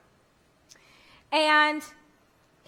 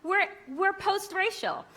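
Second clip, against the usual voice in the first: mock giddy optimism; 8 semitones higher than usual. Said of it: "you're like".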